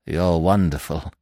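warm. A narrator's reading. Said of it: "he said".

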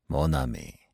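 low, soft French address; soft and mildly ironical; gentle irony. A narrator's reading. Poirot teases his staring friend, gently ironical. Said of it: "in his gentle, ironical voice".

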